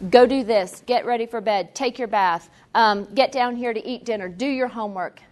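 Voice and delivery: mildly barked list of commands; barking orders. Shown as a demonstration. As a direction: act a drill-sergeant parent, lightly. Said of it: "Very barking, uh, orders".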